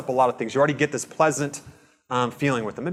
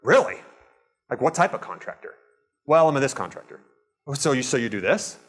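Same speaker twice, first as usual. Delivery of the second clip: genuinely interested. Shown as a demonstration. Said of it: "After that third question".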